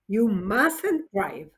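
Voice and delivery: mustn't said slowly and firmly; emphatic. Shown as a demonstration. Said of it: "if you want to be more emphatic".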